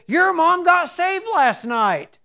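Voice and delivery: high, slow, glowing announcement; joyful news. Retold or imitated. Husband telling his wife the news, beaming. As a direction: savor every word of good news.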